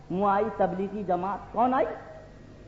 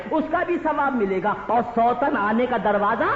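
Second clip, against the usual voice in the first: usual speaking voice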